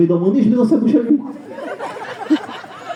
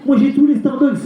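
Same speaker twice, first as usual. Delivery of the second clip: échange joué; 8 semitones higher than usual. Retold or imitated. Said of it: "il dit".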